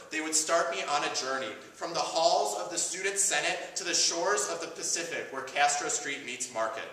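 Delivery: rhetorical speech with deliberate pauses; prepared monologue. Acted. Activist calls the audience to step out, spoken-word speech. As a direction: address the crowd in measured, rising and falling phrases.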